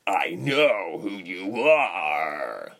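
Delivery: slow, drawn-out, falling delivery; slow, heavy, shaken accusation; shaky. A narrator's reading. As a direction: draw each word out, unsettled. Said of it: "he said shakily".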